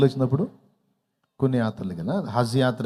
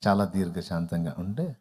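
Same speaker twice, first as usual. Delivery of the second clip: mock patience; 5 semitones lower, 6 dB quieter than usual. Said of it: "దీర్ఘశాంతంగా ముఖం పెట్టి".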